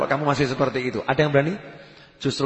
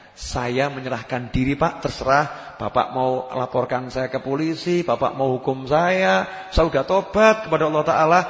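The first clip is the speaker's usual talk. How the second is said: acted surrender; 2 semitones lower than usual. Robber surrenders to his victim.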